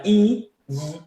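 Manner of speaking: "I" drawn out, then buzzed; vibrating I. Shown as a demonstration. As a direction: turn "I" into a vibrating glide. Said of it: "que además vibra". ("I" alargada que además vibra)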